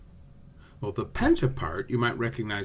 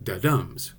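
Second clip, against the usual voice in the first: "da-dums" with light da and strong DUMS; da-DUMS as a metrical foot; iambic stress; 2 semitones lower than usual. Shown as a demonstration. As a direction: lean on the second syllable of "da-dums". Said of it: "the pentameter has five iambs".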